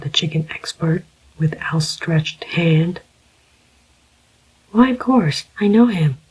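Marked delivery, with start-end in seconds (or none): 4.7-6.2 put-on higher, warm young woman's voice; a lightly voiced young woman, welcoming; warmly. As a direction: greet an old friend kindly, voice lifted. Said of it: "she said warmly".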